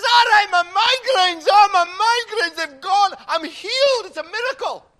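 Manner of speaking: hammed-up Scottish cry of amazement; Scottish accent. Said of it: "his Scotsman and says".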